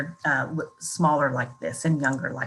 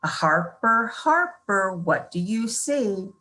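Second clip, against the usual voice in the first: Harper called with a rise, then slow what do you see; personalized sing-song reading; 2 semitones higher, slower than usual. Shown as a demonstration. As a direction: read it to the child by name, lilting. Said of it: "it could be".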